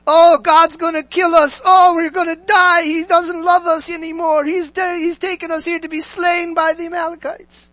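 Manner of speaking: high, hammed-up doom wail; high-pitched mock despair, starting loud; mock panic. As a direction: imitate people wailing that they're doomed. Acts out the people's panicked complaint.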